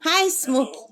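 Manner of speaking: talking sweetly up high to a pet bird; coaxing a pet. Real, not acted. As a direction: coax the bird in a high, sing-song lilt. Greeting her pet bird.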